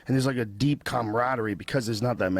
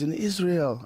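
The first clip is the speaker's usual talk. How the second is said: badly faked Israeli accent, higher voice; terrible Israeli accent; 5 semitones higher, slower than usual. Israeli friend explaining his life, in a bad Israeli accent. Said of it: "I'm doing a terrible accent".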